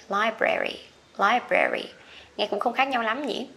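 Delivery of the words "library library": American "Library" with an e middle; American pronunciation. Shown as a demonstration. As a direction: say "Library" with a clear eh in brer. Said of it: "âm e".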